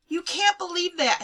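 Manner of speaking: high, loud outcry; crying out. A narrator's reading. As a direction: cry out in disbelief. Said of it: "Hannah cried".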